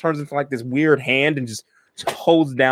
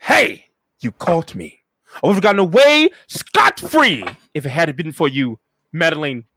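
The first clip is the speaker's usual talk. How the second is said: caught villain; 3 semitones higher, 4 dB louder than usual. Acted. Unmasked villain's stock confession.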